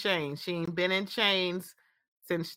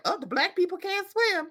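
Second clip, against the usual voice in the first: mocking a stereotype; 9 semitones higher than usual. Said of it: "another stereotype".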